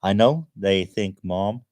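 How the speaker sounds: Brit's put-on American accent. Reading a viewer's message, American accent. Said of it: "can we have Sean back".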